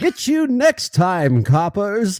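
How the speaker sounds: high, slow laughing cartoon crook; sputtering foiled villain. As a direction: shake your fist as the crook escapes. Cartoon crook parting threat.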